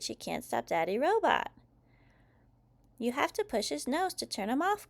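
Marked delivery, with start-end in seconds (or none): 3.0-4.9 high-pitched called instruction; Mum calling out. A narrator's reading. Mum tells children about off switch, calling out. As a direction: call advice across to the kids. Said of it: "calls Mum".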